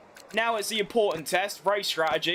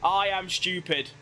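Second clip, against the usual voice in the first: slow, lightly voiced radio self-reproach; slow mock self-blame, lightly imitated; Charles Leclerc; 4 semitones lower, slower than usual. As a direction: mimic a dejected driver owning up over the radio. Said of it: "Can I do a Leclerc?".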